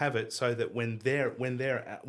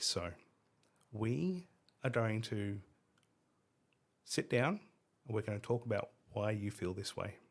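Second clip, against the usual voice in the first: soft, eerily calm, controlled, scary delivery; 2 semitones lower, 6 dB quieter than usual. Asked by another speaker to do it in the scary calm voice. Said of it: "in the scary calm voice".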